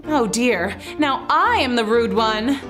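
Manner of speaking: ordinary delivery, nothing marked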